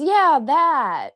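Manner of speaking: high, imitated burst of recognition; eager recognition. Room service girl recognizing the accent, acted excited agreement. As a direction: pounce on it as the girl who finally hears it. Acts out Kenyan girl's delighted recognition.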